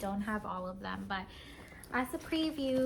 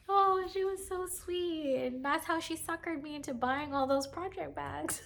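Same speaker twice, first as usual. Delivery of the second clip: laughing; 7 semitones higher than usual. Real, not acted. Laughing fond recollection.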